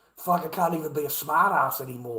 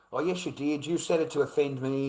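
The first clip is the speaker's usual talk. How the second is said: imitating an offended woman, slightly raised voice; mock offended; 3 semitones higher, 3 dB louder than usual. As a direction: act out her indignant accusation, lightly hammed-up. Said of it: "she's all offended".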